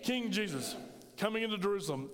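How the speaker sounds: King Jesus said with conviction; like you mean it. Shown as a demonstration. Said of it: "say it like you mean it".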